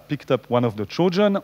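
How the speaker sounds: English read in a French accent. Real, not acted. Lecturer showing students an English sentence, French-accented English. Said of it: "vous allez remarquer mon accent anglais".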